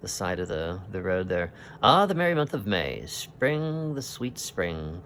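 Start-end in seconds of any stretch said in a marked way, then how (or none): 1.8-5.0 lightly voiced jolly sea captain, a bit raised; hearty Captain Haddock. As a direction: boom out the joy of spring like an old sailor. Reads Haddock's lines in comic book.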